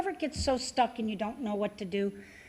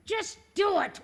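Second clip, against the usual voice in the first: son's urging shout; 11 semitones higher, 3 dB louder, slower than usual. Retold or imitated. Son urges mom on plane.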